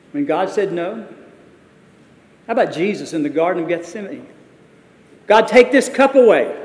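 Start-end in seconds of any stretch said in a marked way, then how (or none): 5.2-6.5 pleading prayer. Acted. Jesus begging his Father in the garden, anguished plea.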